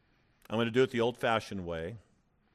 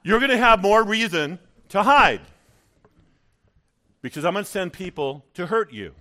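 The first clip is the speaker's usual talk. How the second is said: devil's threat; 7 semitones higher, 10 dB louder than usual. Acted. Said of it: "the devil's attacks".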